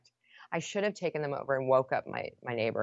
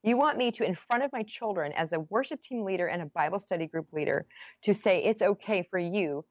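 higher, heated protest; indignant rant; 4 semitones higher than usual. Retold or imitated. Wife lecturing her husband about her leadership, indignant. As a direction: build the outrage.

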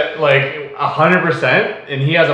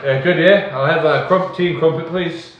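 mock British accent; 2 semitones higher than usual. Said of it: "accent's kinda funny".

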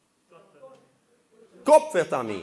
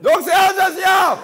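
triumphant gotcha; 9 semitones higher, 5 dB louder than usual. Real, not acted. Triumphant gotcha in a teasing debate.

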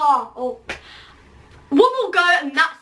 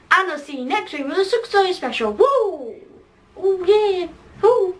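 lively sing-song sign-off with high whoops; bouncy, rising-and-falling vlogger outro; Joe Sugg impression; 5 semitones higher than usual. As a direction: wrap up the show, then whoop. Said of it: "Joe Sugg".

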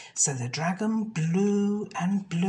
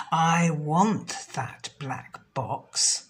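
screamed; 2 semitones lower, much slower than usual. Acted. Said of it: "She screamed".

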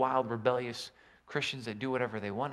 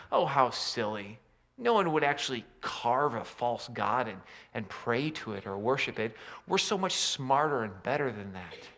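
mock smug dismissal; 3 semitones lower than usual. Mocking smug churchgoers' thinking.

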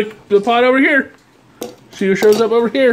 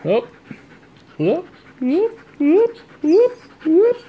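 excited whoops; 9 semitones higher, slower than usual. Real, not acted. Owner hyping the dog with rising whoops. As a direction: whoop it up higher each time.

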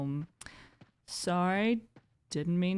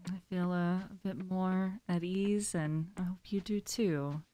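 soft, calm invitation to breathe; mindful breathing guide; 5 dB quieter than usual. Real, not acted. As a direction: gently guide listeners into a breathing pause. Leads mindful breathing pause.

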